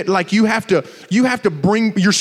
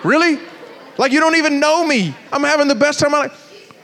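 higher-pitched mock protest; mild indignation; 6 semitones higher than usual. Man answering strangers who mock his laugh, mildly indignant. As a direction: protest lightly, as if put out.

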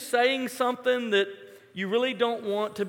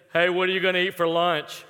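imitating non-whisperer; 4 semitones lower, faster than usual. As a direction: mimic a friend with no whisper. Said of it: "had no gear for whispering".

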